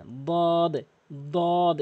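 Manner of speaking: "দদ" held long, tongue side on the upper gum; pronunciation demo. Shown as a demonstration. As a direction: draw out the heavy vowel of "দদ", then close on d. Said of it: "এভাবে উচ্চারণ করবেন". ("দদ" টেনে, জিহ্বার কিনারা মাড়িতে লাগিয়ে)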